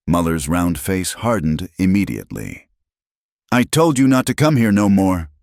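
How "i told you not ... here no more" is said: put-on sharp, high and loud, with a German accent; angry German accent. A narrator's reading. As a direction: scold her off in a thick German accent. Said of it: "in her thick German accent".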